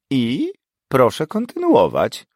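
impatient order. Acted. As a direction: push the student on. Professor impatient.

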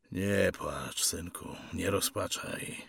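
soft, subdued comforting; gentle words to a child; fatherly consolation. Acted. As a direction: soothe your son quietly. Father consoles his son.

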